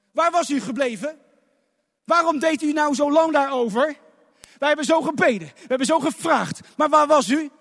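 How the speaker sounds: reproachful cry. Acted. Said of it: "En wat riep ze?".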